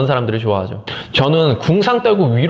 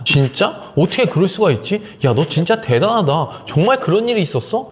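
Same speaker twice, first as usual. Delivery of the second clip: big reaction; 5 semitones higher than usual. Shown as a demonstration. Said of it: "리액션도 끝내준다는 거죠".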